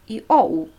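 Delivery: "I, O, U" gliding with the weight on "O"; stress on O. Shown as a demonstration. Teacher showing flowing vowels, stress on "O". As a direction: lean on the middle "O" of "I, O, U". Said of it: "Betonung auf O".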